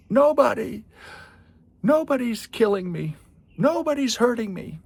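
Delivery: high, loud mock giant protest; Cyclops voice. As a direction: whine it like a hurt giant. Cyclops answers neighbors, retold.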